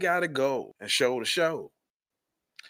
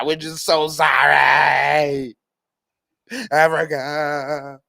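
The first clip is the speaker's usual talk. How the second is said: mock groveling apology; slower than usual. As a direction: ham up a grovelling apology, swelling to a shout. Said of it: "Look, this is what they want".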